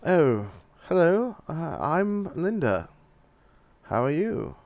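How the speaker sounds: pitched-shifted woman's voice; voice changer. Acted. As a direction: speak through a voice changer. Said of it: "as soon as I get my voice changer on".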